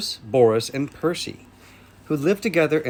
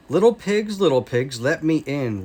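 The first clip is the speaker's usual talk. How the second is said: mild roar; 3 dB louder than usual. Acted. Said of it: "roared the wolf".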